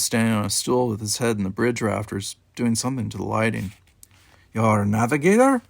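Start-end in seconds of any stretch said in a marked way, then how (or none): 4.5-5.6 lightly voiced Russian accent, firm and final; a hint of a Russian commander's accent, giving a cryptic promise; thick Russian accent. A narrator's reading. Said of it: "His thick Russian accent".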